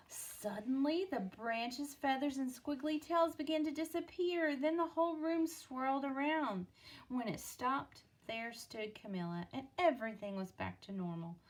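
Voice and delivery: lively storybook reading with voiced characters; story narration. A narrator's reading. Parent reading a picture book to a child, lively storytelling. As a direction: read it like a bedtime picture book.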